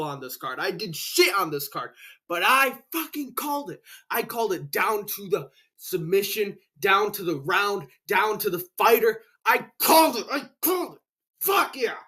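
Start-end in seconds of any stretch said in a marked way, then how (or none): 2.3-12.0 higher, rising with glee; excited gloating. Real, not acted. Vlogger gloating to viewers about his pick, high excited crowing. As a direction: crow over the win, getting higher.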